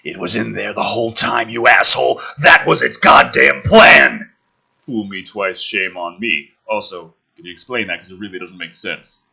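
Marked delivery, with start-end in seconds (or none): 0.0-4.3 a touch of anger, slowing; understated furious accusation; mild livid. Acted.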